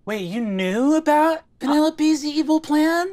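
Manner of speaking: high, incredulous question climbing upward; shocked disbelief. Acted. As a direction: question them in alarmed astonishment. Zelda learns friend knew the plot.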